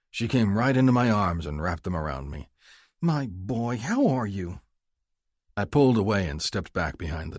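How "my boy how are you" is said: higher, affectionate mother. Acted. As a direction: greet him like his mom. Mother greets her son.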